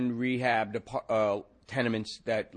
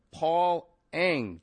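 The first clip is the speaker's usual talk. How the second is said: "Paul Eng" louder and higher, falling; blaring; 7 semitones higher, 4 dB louder than usual. A narrator's reading. Detective yelling a name at the men. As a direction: bellow the name at them. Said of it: "Then blaring".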